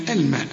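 الماء with a thin, light m. Shown as a demonstration. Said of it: "هنا هنقول الماء".

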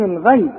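الغيب with a thin, fronted "ghay"; wrongly thin Ghayn. Shown as a demonstration. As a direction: lighten the غ of الغيب. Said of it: "كل دي غلط".

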